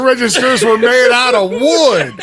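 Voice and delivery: put-on old prospector. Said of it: "talking like an old timer".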